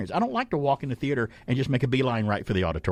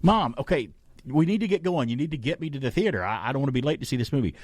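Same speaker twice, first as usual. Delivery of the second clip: mock pleading kid; 5 semitones higher than usual.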